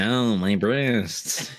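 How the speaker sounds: slow, drawn-out mock pain; drawled fake agony; mock victim. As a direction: stretch the ow like a hammed-up victim. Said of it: "She went".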